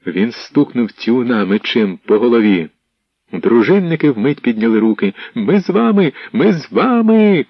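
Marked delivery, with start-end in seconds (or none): 5.3-7.4 high, loud repeated cry; crowd shouting. Acted. Retainers surrendering to the rebels, loud eager shout. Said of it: "кричали вони".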